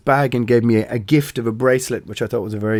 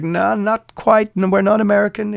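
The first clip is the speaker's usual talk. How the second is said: lightly voiced nervous denial; quoting himself; 9 semitones higher than usual. Band denies being American.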